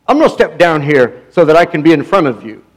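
imitated English accent. Revivalist stepping down to face church leaders, English accent. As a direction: quote him in a lightly put-on English accent. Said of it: "in his English accent".

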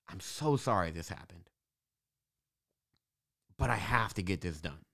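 low, soft, subdued aside; private inner thought. Retold or imitated. Founder privately torn over the videographer leaving, subdued inner thought. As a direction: drop low and quiet, as if thinking it. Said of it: "in the back of my head".

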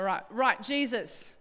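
lightly put-on broad ocker Australian; ocker accent. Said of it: "like, super ocker like this".

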